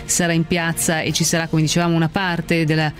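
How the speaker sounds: brisk headline read over music; news read. Acted. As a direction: rattle off the headlines like a news anchor. (lettura dei titoli del telegiornale)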